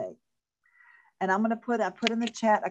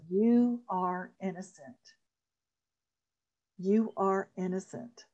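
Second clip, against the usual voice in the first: slow sincere affirmation; slower than usual. Shown as a demonstration. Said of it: "And you say it ten times".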